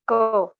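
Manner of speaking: क called out loud; क stressed as a demo; syllable ka demo. Shown as a demonstration. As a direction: say क as ka with the inherent a.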